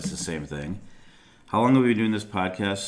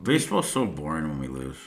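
talking into a hand; muffled behind a hand; 3 semitones lower than usual. Real, not acted. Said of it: "you're talking into your hand".

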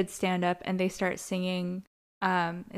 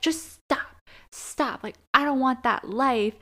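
exasperated plea; 4 semitones higher than usual. Retold or imitated. Acting out Finn's breakup plea.

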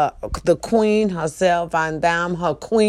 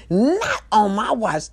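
acted catchphrase; 3 semitones higher, slower than usual. Acts out slamming the counter.

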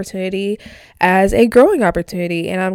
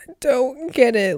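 whisper; 3 semitones higher, 3 dB quieter than usual. Real, not acted. Crying, words fading to breath.

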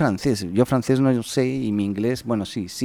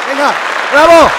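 high shouted bravo; loud cheer; 13 dB louder than usual. Pretend. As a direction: cheer like the crowd. Fake applause cheer.

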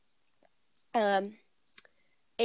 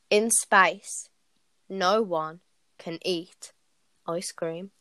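horror trailer voice; 3 semitones lower, much slower than usual. Acted. Reciting joke film tagline.

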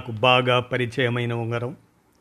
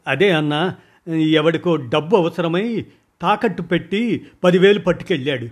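hurried answer; 4 semitones higher than usual. Acted. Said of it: "గబగబా చెప్పాడు".

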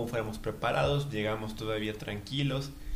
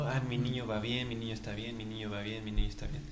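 relieved inner voice; 3 dB quieter than usual. Retold or imitated. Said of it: "pues me iba dando mucha alegría".

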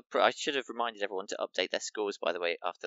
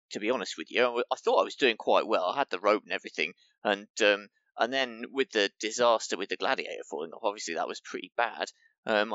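interviewed contestant; 5 dB louder than usual. Acted. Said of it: "I need an accent for this one".

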